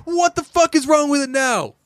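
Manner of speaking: hammed-up frustration at the producer; fed-up singer.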